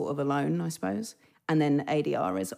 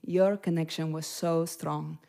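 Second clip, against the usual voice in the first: Penélope Cruz impression; 3 dB quieter, slower than usual. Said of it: "Try it right now".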